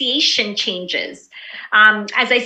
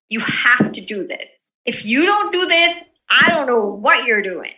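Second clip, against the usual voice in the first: slight force. Shown as a demonstration. Teacher showing how stress changes meaning, slightly forceful. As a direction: press it gently but firmly, pitch leaping midway. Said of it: "with slight force".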